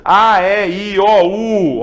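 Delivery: A, E, I, O, U sounded out loud one by one; vowels called out. Shown as a demonstration. Teacher to class, calling out the vowels loudly. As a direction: call each vowel out loud. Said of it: "apenas cinco".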